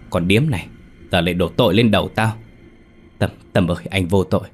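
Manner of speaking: a touch of husband's fury, then pleading; angry then begging. Acted. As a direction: curse her, then beg the ghost. Sĩ accuses wife, then begs.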